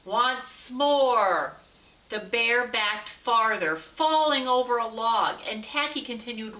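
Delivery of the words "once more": calling through a sleeping bag; muffled, as if under a blanket. Acted. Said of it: "his muffled voice calling".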